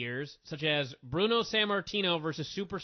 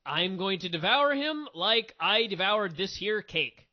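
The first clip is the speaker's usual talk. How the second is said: drawn out, slow mocking read of the flubbed line; mock it slowly, word by word; slow sarcastic parody of a botched wrestling promo; slow mock quote; 2 semitones higher, 3 dB louder, slower than usual.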